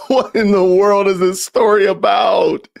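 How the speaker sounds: high, laughing disbelief, shouting it out. Real, not acted. Host reacting to the clip, laughing shout. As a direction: laugh it out in shock at the story.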